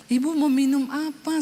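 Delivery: sweet, gentle offer of a drink; kind offer. Retold or imitated. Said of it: "dalam keadaan sudah pulih". (tawaran ramah dan lembut)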